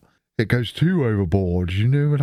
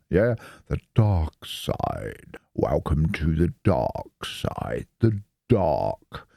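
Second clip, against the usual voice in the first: mock ominous; 4 semitones lower, slower than usual. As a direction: play at being a Star Wars villain, slowly. Dramatic "dark side" line.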